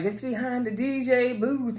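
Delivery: slow, lightly voiced Uncle Clifford line; a hint of Clifford, drawn out; mildly imitating Clifford saying D J booth; quoting Uncle Clifford. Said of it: "Uncle Clifford's like".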